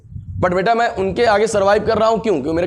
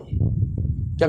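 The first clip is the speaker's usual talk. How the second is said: slow whisper; 5 dB quieter, much slower than usual. Acted. Teacher quizzes students.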